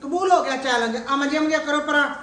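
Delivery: loudly declaring it, full voice. Real, not acted. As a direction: announce it loud to the room. Aunt loudly accepts the challenge.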